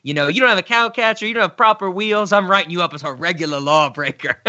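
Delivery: quick, lightly acted police officer's scolding; annoyed policeman. Quoting the cartoon policeman booking an engine, annoyed. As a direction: rattle it off like a fussy officer writing someone up. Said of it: "the police officer is so annoyed".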